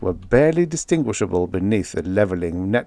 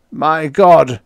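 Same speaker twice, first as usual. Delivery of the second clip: loud, higher gasp of horror; horrified croak; 8 semitones higher, 8 dB louder than usual. A narrator's reading. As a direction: croak it out in shock. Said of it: "he croaked".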